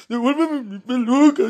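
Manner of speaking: put-on voice breaking. Retelling what someone called after a boy, imitating a cracking voice. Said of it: "se le empieza a quebrar la voz".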